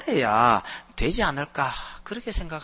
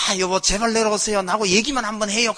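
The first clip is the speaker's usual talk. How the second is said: high, loud imitated pleading; hammed-up desperate coaxing; mock begging; 6 semitones higher, 5 dB louder than usual. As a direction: beg like an anxious police chief. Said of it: "빌고 앉는 경찰서장하고".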